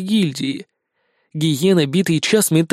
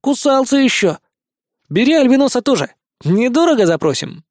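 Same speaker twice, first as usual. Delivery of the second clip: high, fast, pushy helper; a pup hawking the prisoner; eager puppy; 8 semitones higher than usual. Acted. Шустрик торгуется. (высоко, бойко)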